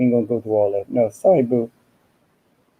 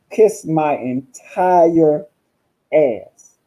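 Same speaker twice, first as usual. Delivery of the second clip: slow, drawn-out sassy kiss-off, lightly voiced; Vera Walker voice; much slower than usual. Streamer tells a troll off in her persona voice, drawn out. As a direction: stretch each word like a sassy diva. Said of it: "in my Vera Walker voice".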